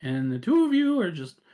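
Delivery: high, quick scolding voice; exasperated Death. Acted. Death telling off the gang he's helping, high exasperated voice.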